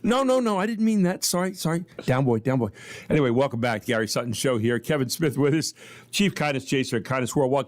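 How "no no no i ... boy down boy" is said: high, hurried mock apology, backing off; mock panic. Host retelling his flustered apology, mock panicked and high. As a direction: plead like someone calming a growling dog, hammed up. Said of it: "I said".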